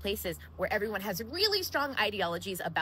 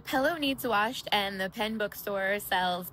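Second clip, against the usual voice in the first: Central Ohio accent, pillow like pellow, pen and pin the same; slow, careful Central Ohio accent demo; slower than usual. Shown as a demonstration. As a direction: say it in your own Central Ohio accent, slowly. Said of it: "That's my Central Ohio accent".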